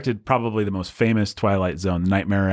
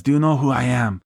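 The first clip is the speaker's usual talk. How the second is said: higher, vague European accent put on; Alexander Salkind; 4 semitones higher than usual. European producer phoning a director, self-important in a vague foreign accent. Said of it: "I don't know what kind of accent he has".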